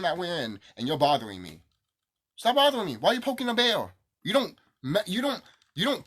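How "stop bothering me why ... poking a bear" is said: high, loud, fed-up shout; sharp exasperated outburst; angry yell. Real, not acted. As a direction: bark it at someone poking a bear.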